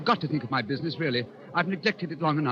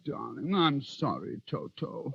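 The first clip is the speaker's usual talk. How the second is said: soft whisper; 3 semitones lower, 5 dB quieter, slower than usual. Acted. Apologizing to the dog, softly.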